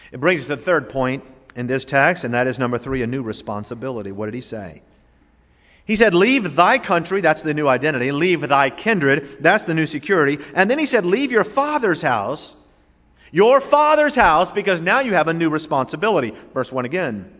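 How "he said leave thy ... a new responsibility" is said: raised, emphatic sermon delivery; high, insistent pulpit voice; fervent preaching. Acted. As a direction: preach it out with mounting force.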